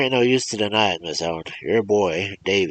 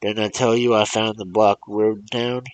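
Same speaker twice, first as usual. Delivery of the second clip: loud, raised, accusing rant; angry old man; 5 semitones higher, 6 dB louder than usual. Acted. Old man demanding the mother call her boy, angrily loud. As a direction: hammer the mother with blame.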